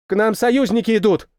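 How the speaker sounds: put-on a young radio operator calling out glad news; joyful. A narrator's reading. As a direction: announce the allies with joy. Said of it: "радостно сказал он".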